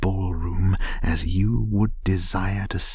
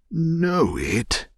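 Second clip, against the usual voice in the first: high-pitched incredulous question; amazed exclamation; 10 semitones higher, 3 dB louder than usual. A narrator's reading. Scrooge asked if he knows his old warehouse, amazed. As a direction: leap up in pitch with astonishment.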